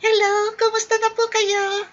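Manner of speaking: mock a limp-wristed hello; hammed-up lilting hello; effeminate greeting.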